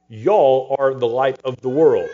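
slow Texas reading of Y'all; mild Texas accent; Texas drawl. Retold or imitated. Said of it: "in a Texas translation".

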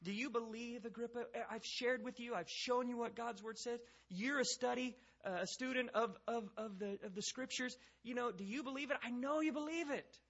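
high, insistent pressing voice; presumptive challenge. Acted. Paul backing Agrippa into a corner, high and insistent. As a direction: corner him, climbing to the final assertion. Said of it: "and so he's like".

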